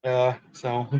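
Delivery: robotic distorted connection audio; glitchy robot-like bad internet call. Real, not acted. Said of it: "You still sound like a robot".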